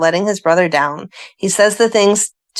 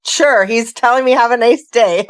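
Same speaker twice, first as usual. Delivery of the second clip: deadpan sister reply; 4 semitones higher than usual. Retold or imitated. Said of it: "I was like".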